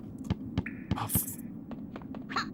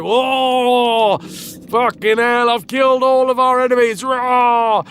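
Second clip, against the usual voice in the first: higher, louder battle roar; raging warrior shout; 8 semitones higher, 4 dB louder, slower than usual. Retold or imitated. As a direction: bellow it like a boy still in a murderous rage. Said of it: "And he's like".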